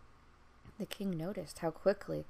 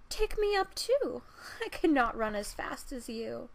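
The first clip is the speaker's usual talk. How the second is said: higher, louder plea; frog calling; 5 semitones higher, 7 dB louder than usual. Acted. Frog begging the princess to take him along, loud. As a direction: call after her, pleading. Frog calls after her.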